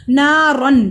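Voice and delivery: नारन with a clear, unhummed final n; loud recitation, long aa in नारन; izhar. Shown as a demonstration. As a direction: end नारन on a clean n. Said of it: "रन पे इजहार होगा".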